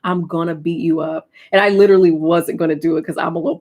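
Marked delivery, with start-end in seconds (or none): 0.0-1.3 retold quiet threat. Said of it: "threaten her with violence".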